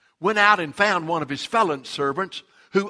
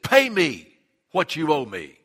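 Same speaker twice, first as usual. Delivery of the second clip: louder, barking demand for payment; harsh demand; 7 dB louder than usual. Acted. Forgiven servant throttling his fellow, angry loud demand. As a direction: grab him and demand it.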